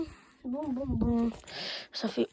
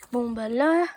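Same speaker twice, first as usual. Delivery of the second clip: whisper; slower than usual. Real, not acted. Whispering during filming.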